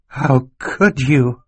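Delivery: put-on high, slow, husky boy's voice; hoarse whisper. Klaus confronting the murderer, hoarse and slow. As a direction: drag it out hoarsely in disbelief. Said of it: "Klaus whispered hoarsely".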